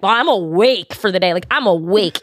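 "awake" leaned on, imitating a friend; retold insistence. Imitating drunk friend insisting she's "awake", emphatic. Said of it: "she kept saying it like that".

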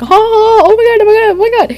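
high, loud squealing laughter through the words; reenacted giggle fit. Retelling a giggle fit with her bestie, high squealing laughter. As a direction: squeal it like you can't stop laughing.

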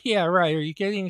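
joking. Retold or imitated. Retelling a joke to his date, joking. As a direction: toss it off as a joke. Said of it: "I was making a joke".

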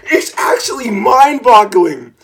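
amazed. Real, not acted. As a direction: marvel at the stupidity. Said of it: "I'm actually impressed".

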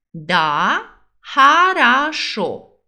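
slow emphatic model. Shown as a demonstration. Teacher models agreement for students, slow and firm. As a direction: lean into хорошо, slow and firm. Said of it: "você diz".

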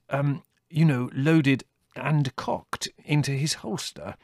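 lightly voiced, fumbling professor; hesitant Theodore. A narrator's reading.

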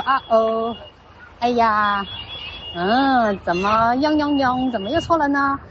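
light sing-song "oh dear", drawn out and slow; gentle mock dismay. Shown as a demonstration. Mother showing son how she reacts to errors, slow playful sing-song. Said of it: "从来是这样跟你说的".

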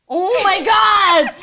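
drawn-out mock exasperation; exasperated cry. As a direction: groan it slowly at being kept waiting. Acts out impatience at waiting.

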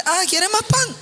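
a cheerful host pushing extra bread; playful offer. Acted.

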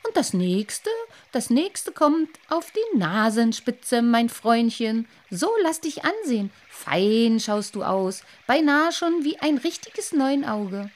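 mock him, admire your work; mocking fish. Lamprey admiring the boy's new eyes, mocking. Dream fish mocks boy.

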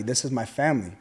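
low, firm stress on "This is my family"; emphatic. Retold or imitated. Man retelling his answer to the officer, emphatically. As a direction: state "This is my family" firmly, pitched low.

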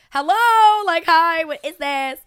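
loud, high mock-indignant hello; big hammed-up phone greeting, easing off; retold incredulous greeting. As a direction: burst into the call demanding answers. Acting out her call to him.

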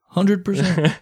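playful emphatic agreement; mock-triumphant echo. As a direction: echo it like a victory cry. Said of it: "you can finally say".

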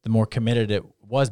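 ordinary talk

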